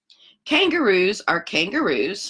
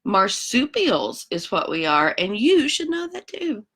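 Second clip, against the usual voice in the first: huffy koala; 3 semitones higher than usual. Acted. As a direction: lecture them like a know-it-all koala. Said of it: "And he says".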